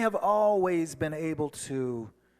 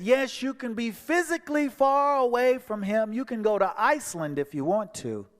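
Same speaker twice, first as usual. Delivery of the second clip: inner voice; 7 semitones higher, 4 dB louder than usual. Retold or imitated. Inner voice speaks, louder.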